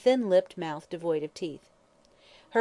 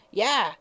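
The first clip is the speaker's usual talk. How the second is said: hasty yah; 4 semitones higher, 6 dB louder than usual. Acted. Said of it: "said the old woman hastily".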